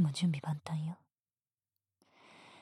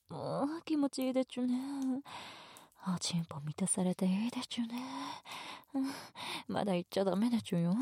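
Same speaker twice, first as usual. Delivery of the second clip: put-on talking to a baby; 5 semitones higher, faster than usual. でちゅね baby-talk endings.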